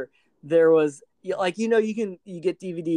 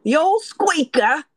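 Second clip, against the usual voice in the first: squeaky silly voice; 10 semitones higher, 5 dB louder than usual. Pretend. Silly voice joke among friends.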